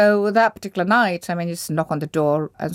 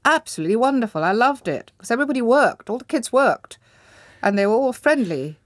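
higher-pitched, lively and delighted; delighted enthusiasm; 6 semitones higher than usual. Real, not acted. Woman recalling a school she loved, delighted. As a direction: gush with real delight, pitch lifting.

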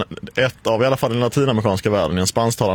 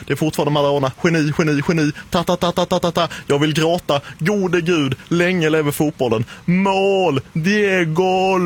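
impassioned football commentary, pitched higher throughout; Argentine commentator in translation; 5 semitones higher than usual. Retold or imitated. Radio host re-enacting the Maradona goal commentary for colleagues, impassioned. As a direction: recreate the ecstatic goal call, stretching the cries. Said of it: "Så här lät det då på svenska".

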